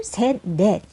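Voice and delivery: ordinary delivery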